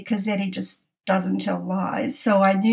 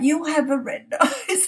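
giggly glee; 8 semitones higher than usual. Retold or imitated. Mum gleefully tells son.

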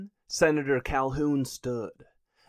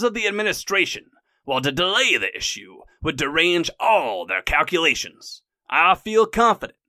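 hammed-up Deep South accent, pitched higher and louder; terrible Deep South accent; 4 semitones higher, 4 dB louder than usual. Narrator reading Calhoun's letter to supporters in a terrible Deep South accent. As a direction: read it like a bad Deep South politician, proud and scheming. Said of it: "Please enjoy my terrible Deep South accent as I read his words".

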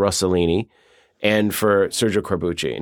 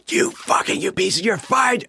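higher hammed-up rage at a fired actor; acted screaming director; 10 semitones higher than usual. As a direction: play the furious Italian director firing someone. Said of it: "he'd be in the middle of screaming".

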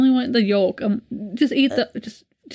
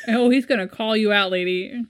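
laughing. Real, not acted. Laughing while quoting.

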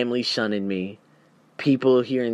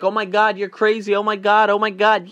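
higher-pitched imitation of gawking onlookers; mock shocked onlookers; 9 semitones higher, 4 dB louder than usual. Onlookers reacting to someone screaming at himself, mock shock. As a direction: play the startled people staring at you.

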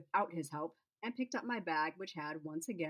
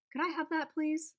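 much higher, tight polite plea; strained plea; 11 semitones higher, 4 dB louder than usual. Acted. She begs for the list in a strained high plea. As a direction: force the politeness through gritted teeth.

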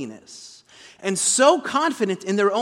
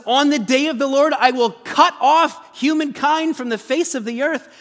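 voice of God; 6 semitones higher, 5 dB louder than usual. Acted. God quoted again.

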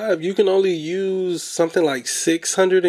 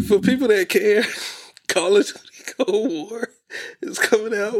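weak voice; 5 semitones higher than usual. Real, not acted. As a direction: say it limply, with no energy. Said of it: "Why are you so weak?".

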